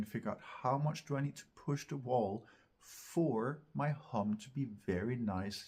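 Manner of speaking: ordinary talk, nothing marked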